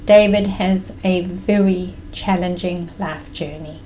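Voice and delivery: understated, grave imitation of mom; somber. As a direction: deliver it soberly, measured and restrained. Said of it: "became very somber and she said".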